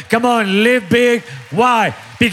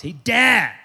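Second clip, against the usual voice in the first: put-on excited young son; 2 semitones higher than usual. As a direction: mimic how a son calls his father. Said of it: "That's the way he talks".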